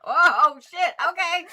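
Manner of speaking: surprised. Real, not acted. Reacts to sired frog.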